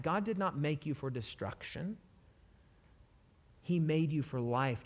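usual speaking voice

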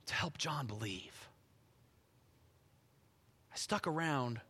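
low, very soft voice as Jesus, with long pauses; tender, hushed. Acted. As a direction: gently reassure a loved one, sinking to near whisper. Preacher voices Jesus tenderly to Mary.

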